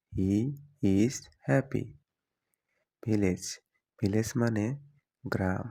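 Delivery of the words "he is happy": slow, word by word for learners; slow clear repeat. Shown as a demonstration. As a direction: spell it out slowly for students. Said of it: "example then repeated slowly". (ধীরে স্পষ্ট করে)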